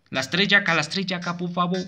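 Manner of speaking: high, pleading repetition; nervous begging. Real, not acted. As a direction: plead anxiously for it to end. Begs for the night to end.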